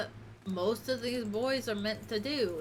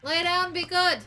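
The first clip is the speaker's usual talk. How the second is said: firm command; 7 semitones higher, 9 dB louder than usual. Real, not acted. Commanding dog louder.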